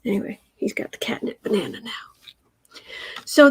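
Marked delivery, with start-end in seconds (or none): 0.1-1.9 quick whispered aside. Real, not acted. Owner whispers an aside so as not to disturb the cat. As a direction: rush it out in a whisper.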